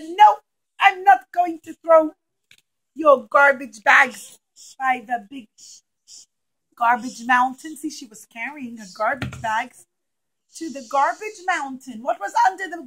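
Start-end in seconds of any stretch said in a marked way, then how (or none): 0.0-7.8 loud refusal. Acted. Yehuda refuses to dump garbage.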